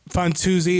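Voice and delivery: Fantuzzi with an oo sound in the middle, Fan-TOO-zee; alternate pronunciation. Shown as a demonstration. Comic demos the second way to say his surname, Fan-too-zee. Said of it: "three ways to pronounce my name".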